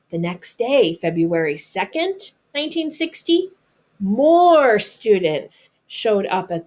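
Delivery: expressive storybook reading voice; reading to children. Acted. Teacher reading a picture book to her students, storybook narration. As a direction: read it like a picture book to a class.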